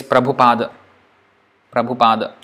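Prabhupada with aspirated bh; Prabhupada, bh with a puff of air; Sanskrit Prabhupada. Shown as a demonstration. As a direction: Prabhupada in pure Sanskrit style. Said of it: "pure Sanskrit".

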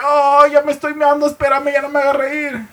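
very high, squealed plea; laughing girlfriend. Retold or imitated. Novia le suplica al novio que pare, chillido fingido. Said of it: "pero ella riéndose acá".

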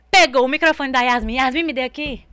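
big, breathless storyteller burst; excited re-enactment. Retold or imitated. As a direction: blurt it out at high volume. Acts out excited grabbing of microphone.

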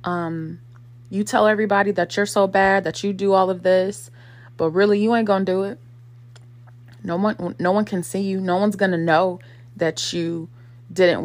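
loud, goading jeer at his own laziness; mocking trash talk. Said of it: "trash talks himself".

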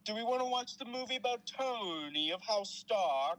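slow, high, put-on British voice; mock British accent. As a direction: drag it out in a hammy British accent. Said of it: "do it with a British accent".

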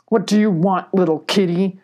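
lightly voiced hostile badger; understated snarling badger; hissed menace. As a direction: challenge the intruder with mild menace. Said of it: "the badger hissed".

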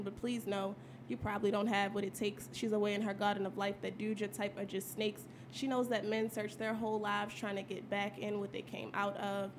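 spoken-word performance; poem recital. Acted. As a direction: deliver it like a poetry slam.

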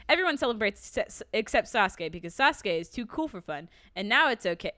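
dry, mocking read-aloud; sarcastic reading. Real, not acted. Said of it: "I wrote this down in a really sarcastic way".

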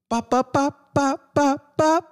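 high sing-song ba ba ba, teasing; mocking taunt chant. Streamer taunting a boxer who hasn't been seen, high sing-song.

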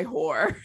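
"horror" squashed into one syllable, like "whore"; imitated accent pronunciation. Teasing a friend's accent, "horror" said as "whore". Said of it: "when you pronounce horror because of your, uh, accent".

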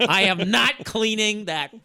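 slow, high, laughing refusal; laughing defiance. Real, not acted. Husband laughing as he refuses his wife's chore.

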